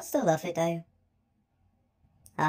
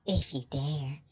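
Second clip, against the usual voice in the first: flirty dare; 3 semitones lower, 5 dB quieter than usual. Acted. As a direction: lure them over, low and unhurried. Flirtatious dare in acted scene.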